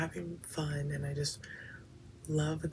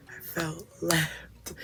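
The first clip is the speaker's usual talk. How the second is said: laughing; 3 dB louder, much slower than usual. Real, not acted. Repeats the line, laughing through it.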